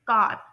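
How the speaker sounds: कार with the r clearly sounded at the end; American rhotic r. Shown as a demonstration. Teacher modelling American rhotic r in car. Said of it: "रोटिक आर की sound".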